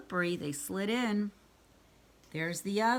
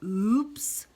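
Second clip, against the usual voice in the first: cried; 4 dB louder than usual. A narrator's reading. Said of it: "cried Froggy".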